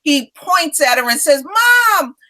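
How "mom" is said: put-on high, drawn-out holler of a small boy; high-pitched kid yelling across the store; imitating yelling child. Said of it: "that's what he yelled out too".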